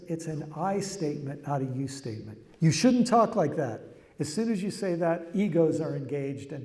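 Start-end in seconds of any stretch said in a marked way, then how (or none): 2.6-3.8 scolding. Retold or imitated. Example of a blaming you statement.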